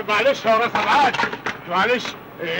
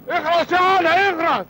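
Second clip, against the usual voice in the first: higher, sharp order to shut up; harsh hush; 6 semitones higher than usual. Acted. Uncle tells Ali to shut up, sharp and raised. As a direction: snap at him to shut up.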